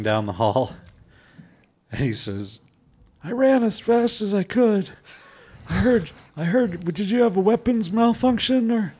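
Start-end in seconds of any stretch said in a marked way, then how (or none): 3.2-8.9 put-on old man voice. GM voices old guy NPC.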